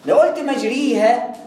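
مجريها said slowly with a full clear i; slow wrong full i on مجريها. Shown as a demonstration. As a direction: say مجريها with pure kasra. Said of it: "أصبحت دي مش إمالة".

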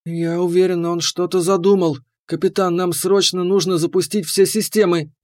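steady steel in the voice; steely resolve. Acted. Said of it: "твёрдые стальные нотки".

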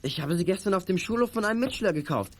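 rising, flustered defence; worked-up boy pleading his innocence; agitated protest. Acted. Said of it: "Beruhigen Sie sich".

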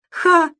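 a pleased exclamation of triumph; gleeful ha. A narrator's reading. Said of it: "обрадовался Робин". (радостное «Ха!»)

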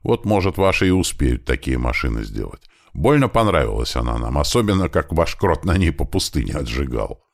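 usual speaking voice

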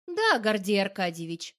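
sarcastic parroting of the title; mocking echo. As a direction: mimic him with mockery. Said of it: "поддакиваю я".

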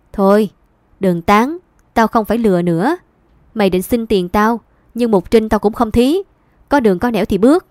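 angry dismissal. Acted. Mother pushing her son out the gate, angry. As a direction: shut him down and show him the door.

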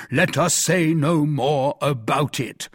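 slow, deliberate echo; measured sarcastic repetition; mocking quote. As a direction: throw the words back pointedly, word by word. Porthos quotes Aramis back, mocking.

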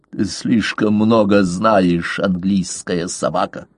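panting through the words; gasping, out of breath from the struggle; breathing heavily. Acted. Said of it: "Тяжело дыша".

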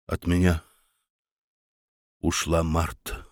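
тихо, медленно, заметно тише; едва слышно, медленно, с горечью. A narrator's reading. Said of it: "тихо произнёс Мюнхгаузен". (барон тихо признаётся бургомистру: тихо и медленно)

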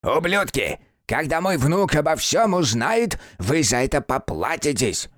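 put-on high, cracked old man's yell; a jailed grandfather shouting threats; old man ranting. Old man yells from cell. (крикливый старик)

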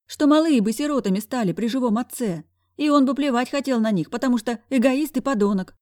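animated friend venting outrage; brash best friend. Acted. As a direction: argue heatedly on a friend's behalf. Voices the brash friend Zaika.

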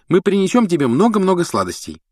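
put-on high, kind girl's voice; heartfelt promise. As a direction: comfort a sad friend. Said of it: "обещала Гермиона, от всего сердца жалея".

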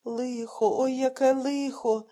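put-on an old blind man crying out in distress; a distraught old man wailing, slow and loud; lamenting old man. A narrator's reading. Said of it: "бідкався схвильований чоловік".

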